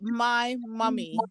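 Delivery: slow, soft my mummy, MY stressed; Patois prompt. Shown as a demonstration. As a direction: coax it out in Patois. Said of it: "Think about it in Patois now".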